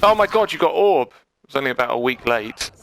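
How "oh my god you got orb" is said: surprised. Real, not acted. Coach reacts to replay.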